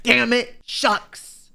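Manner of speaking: a hint of a dad saying Damn it, shucks; white suburban dad. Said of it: "like you're like a white suburban dad".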